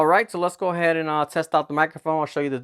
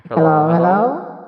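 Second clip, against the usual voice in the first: high voice; 4 semitones higher, 7 dB louder, slower than usual. Shown as a demonstration. Pitch effect still on.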